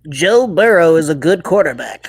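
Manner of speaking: nasal pinched-nose voice; pinching nose. Pretend. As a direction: talk with nose pinched shut. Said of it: "by pinching your nose".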